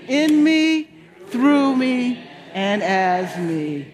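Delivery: slow, emphatic, deeply felt reading; felt affirmation. Shown as a demonstration. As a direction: really feel each phrase, slowly. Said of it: "Let's take it from the "I am empowered" and really feel".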